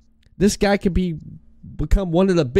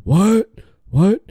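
Stone Cold impression. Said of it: "talk like Stone Cold Steve Austin".

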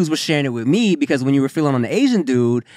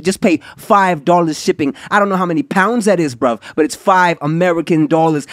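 hammed-up Cockney ad read; mock British accent, playful; 4 dB louder than usual. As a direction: play a cheeky London geezer selling pills. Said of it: "Now we switching it up. We going all over the U K".

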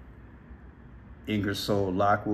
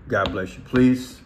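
speaking through hiccups; hiccuping; 6 dB louder than usual. Real, not acted. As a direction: hiccups breaking the words. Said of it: "I'm hiccuping".

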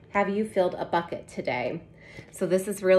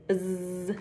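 bee buzz; 5 dB quieter than usual. Pretend. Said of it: "bees in the flowers".

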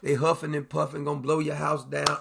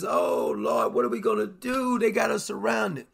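mock frightened cry; 3 semitones higher than usual. Frightened servant voiced in story.

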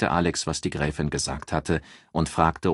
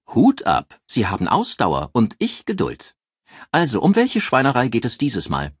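lively newspaper editor; 6 semitones higher, 5 dB louder than usual. A narrator's reading. Eccentric editor Joyce greets the detective on the phone, high and gushing. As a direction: play her as a gushing, theatrical editor thrilled to hear from him.

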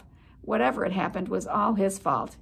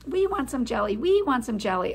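squeaking cousins; 3 semitones higher, 3 dB louder than usual. Acted. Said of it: "little cousins began to squeak".

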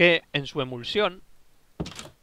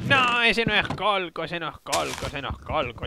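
wicked witch voice, trailing off. Retold or imitated. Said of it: "¿Pero con voz de bruja?".

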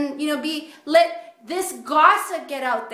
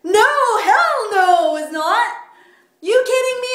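indignant denial; 6 semitones higher, 9 dB louder than usual. Retold or imitated. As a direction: protest it like you're outraged. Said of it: "I'm like".

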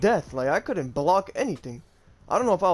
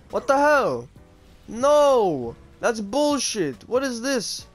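raging gamer; 7 semitones higher, 4 dB louder, much slower than usual. Real, not acted. Sudden loss in game, outburst.

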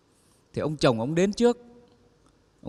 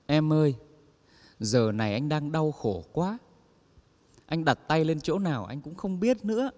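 whimpering; 4 dB quieter than usual. Acted. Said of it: "ông mếu máo".

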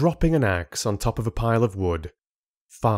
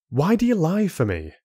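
grumbling; 9 semitones higher than usual. Acted.

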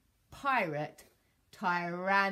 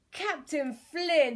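loud, slow, raised plea; exhausted stammer; 7 semitones higher, 8 dB louder, slower than usual. A narrator's reading. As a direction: drag it out in defeat. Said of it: "he stammered".

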